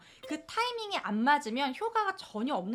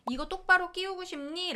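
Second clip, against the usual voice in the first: gentle question; 7 semitones higher than usual. Retold or imitated. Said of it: "라고 아이의 욕구".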